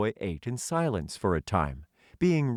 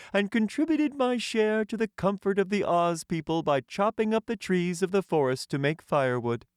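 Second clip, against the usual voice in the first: Tin Man voice; 11 semitones higher than usual. Acted. The Tin Emperor welcoming a hungry stranger, high and stately. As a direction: lift the voice high and speak as a courtly tin ruler.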